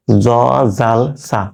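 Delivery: "জ, জাল, সা" with tongue tip on the front teeth; tongue-tip articulation. Shown as a demonstration. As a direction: say "জ, জাল, সা" with the tongue against the upper-teeth tips. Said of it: "এই তিনটা উচ্চারণ জিহ্বার আগা".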